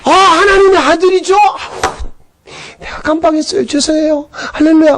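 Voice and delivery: 높은 목소리로 머쓱하게 사과하는 마리아; 깜빡한 걸 인정하듯 높게; 뉘우치는 마리아 흉내. Retold or imitated. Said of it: "막 이래야 되는데". (뉘우치는 마리아를 흉내 내며 높은 목소리로 사과)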